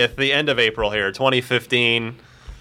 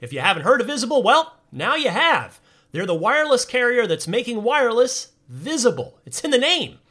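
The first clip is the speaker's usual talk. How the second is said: upbeat announcer ad read; bright, breezy ad voice; 5 semitones higher than usual. Acted. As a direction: sell it like a radio spot.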